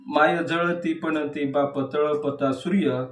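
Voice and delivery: even, measured verse reading; declaimed poetry with small pauses between half-lines; poem recitation. Acted. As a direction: recite each image as its own phrase. Recites third poem aloud.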